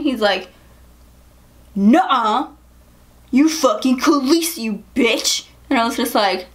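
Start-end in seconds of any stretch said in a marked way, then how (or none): 1.7-5.5 imitating an indignant drunk guy; raised-voice mock outrage; mock drunk anger. Drunk guy refuses her correction, angrily insisting. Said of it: "he was so mad".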